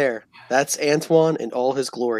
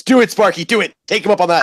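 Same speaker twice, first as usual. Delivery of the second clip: egging on; 5 semitones higher, 5 dB louder, faster than usual. Real, not acted. Urging Sparky to take offer.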